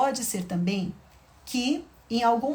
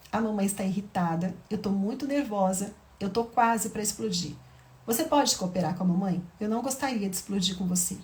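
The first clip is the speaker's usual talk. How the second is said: calm, honest mother; 3 semitones lower than usual. Shown as a demonstration. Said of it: "posso falar pra ela ... como eu estou me sentindo". (mãe calma e sincera pedindo ajuda à filha)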